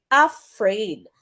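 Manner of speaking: AFRAID with a weak "a" and a strong "fraid"; iambic stress. Shown as a demonstration. Teacher giving an iambic example, stress on the end of AFRAID. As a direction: lean on the second syllable of "afraid". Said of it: "sa iambic".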